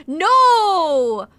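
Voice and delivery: loud, high shocked cry of no. Real, not acted. Streamer shocked by chat's answer, loud disbelieving no. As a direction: blurt it out in disbelief.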